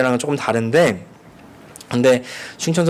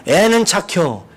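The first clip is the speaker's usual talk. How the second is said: slow, higher 애는 착혀; Chungcheong drawl; 5 semitones higher, slower than usual. Retold or imitated. Preacher repeating the insult to explain it, slowly. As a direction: drawl it knowingly. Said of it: "이 말이 사실은".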